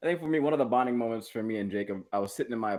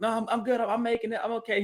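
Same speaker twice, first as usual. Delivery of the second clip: mock proud brush-off; 11 semitones higher than usual. Retelling his proud brush-off.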